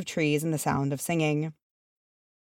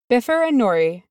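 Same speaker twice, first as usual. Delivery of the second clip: mother voice; 6 semitones higher, 4 dB louder than usual. A narrator's reading. Mother answering, higher voice.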